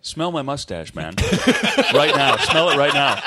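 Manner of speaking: loud, laughing pushy neighbor. Retold or imitated. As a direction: push it with a laugh.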